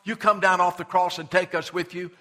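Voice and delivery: a mocking thief calling out to Jesus from the cross; mocking jeer. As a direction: sneer it like a jeering thief. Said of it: "had mocked him and said".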